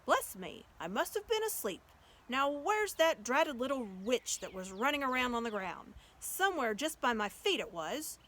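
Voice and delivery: waking giant, loud and grumbling; a big good-natured giant just woken; sleepy giant. Acted. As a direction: giant rubbing his eyes. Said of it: "and said".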